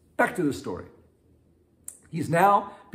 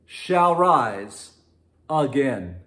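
Jesus declaring; 6 dB louder, much slower than usual. Retold or imitated. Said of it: "Jesus said unto her".

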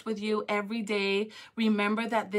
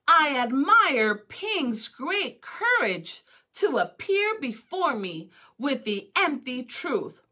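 emperor's proclamation; 2 semitones higher, 5 dB louder, slower than usual. Acted. Emperor's closing royal speech.

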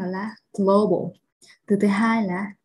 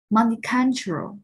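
multicultural slowly, CUL stressed; multicultural with the main beat on the root; 2 semitones higher than usual. Shown as a demonstration. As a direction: draw out multicultural, leaning on CUL. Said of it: "trọng âm sẽ rơi vào cái âm gốc".

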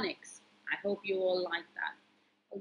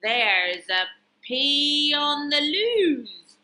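Super Toto; 3 semitones higher, 6 dB louder, slower than usual. Acted. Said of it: "said Super Toto".

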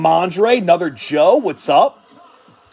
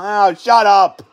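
louder, dismissive snap at the hecklers; loud shut up; 3 semitones lower, 5 dB louder than usual. Acted. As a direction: tell the doubters to shut up. Snapping back at imagined commenters.

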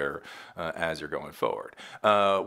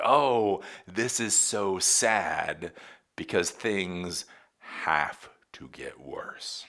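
mock lament; much slower than usual. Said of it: "these thinkers were like".

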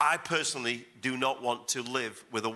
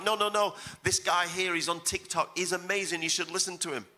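mock eager young fan, much higher; imitating the eager young guy; 5 semitones higher than usual. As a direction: ape the youngster gushing about a TikTok preacher, pitched up. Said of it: "He's like".

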